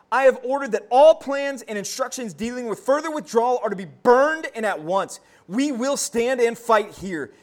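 stern military order. Retold or imitated. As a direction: declare it like a general refusing retreat. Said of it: "he said this".

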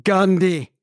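GANDHI in a smooth arc like a lyrical name; same melodic inflection. Shown as a demonstration. Friend countering that Gandhi can flow too, melodic. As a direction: copy the friend's flowing tune on GANDHI. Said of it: "do it with the same inflection".

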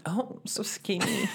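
breathy high whisper. Pretend. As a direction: whisper it, mock impressed. Mock reaction to weight loss.

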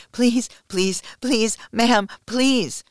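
high, loud, urgent pleas; desperate begging. Acted. Submissive pleading for release, desperate begging.

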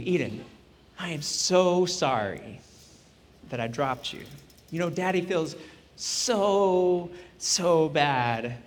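quietly remorseful father; tender apology. Retold or imitated. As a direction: say sorry gently, nearly breaking. Dad's tearful apology to daughter.

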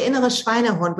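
innere Schweinehund in German, SHVINE-eh-hoont; German pronunciation. Shown as a demonstration. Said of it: "which is like a kind of our inner pig dog".

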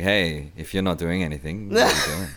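seductive voice. Pretend. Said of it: "say it in a very seductive voice".

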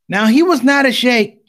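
ordinary talk, nothing marked

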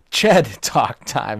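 laughing through the words; cracking up mid-phrase. Real, not acted. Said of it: "I can't even say it without laughing".

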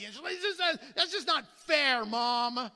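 high, whiny protest to Mom; mock childish whine, pushed high; whining child. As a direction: complain like an aggrieved kid. Imitates child whining to mother.

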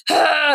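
high, re-enacted sigh of exasperation; annoyed groan. Mother annoyed in the kitchen, exasperated groan. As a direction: let out an imitated fed-up "ah". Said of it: "I was so annoyed by something".

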